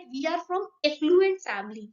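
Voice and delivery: quoting "affluent" misspoken as "effluent"; mispronounced affluent. Retold or imitated. Teacher quotes what some people say, "affluent" misspoken as "effluent". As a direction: start "affluent" wrongly with an eh sound. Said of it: "तो एफ्लुएंट नहीं होता".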